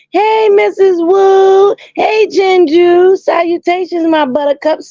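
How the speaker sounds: high, bright-voiced shout-outs to viewers; squealing hello to her fans; excited greeting. Real, not acted.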